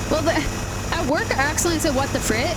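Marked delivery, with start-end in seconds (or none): 1.9-2.6 lightly Minnesotan slip of the tongue; Minnesotan accent. Retold or imitated. Accidental slip at work to a coworker, Minnesotan accent. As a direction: let a little Minnesotan slip out. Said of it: "doing a Minnesotan accent".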